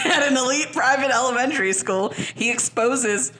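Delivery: real giggles breaking into the read; laughing while reading. Real, not acted. Reader attempting the plot synopsis for co-hosts, laughing. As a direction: struggle to read on through laughter. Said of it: "cannot do it without laughing".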